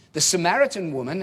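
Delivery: "Samaritan" brought out above "woman"; stress on Samaritan. Shown as a demonstration. Preacher reading the verse to the congregation, stress on Samaritan. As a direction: lean on "Samaritan" as the telling word. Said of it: "again, the emphasis".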